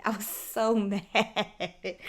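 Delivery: repeating how mad she was, now laughing; laughing mid-sentence. Real, not acted. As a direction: laugh breaks into the word mad. Repeats line, laughing through it.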